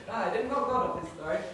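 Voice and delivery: lightly put-on Northern English accent; hammed-up saying in a Northern accent. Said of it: "in the Northern accent".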